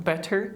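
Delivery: BETTER with a full T; hard T. Shown as a demonstration. Teacher shows what not to say, BETTER with hard T. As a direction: sound a true T in the middle of BETTER. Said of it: "Don't say like".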